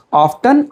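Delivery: "Often" with the t sounded, of-ten; "Often" with an audible t in the middle. Shown as a demonstration. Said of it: "not often".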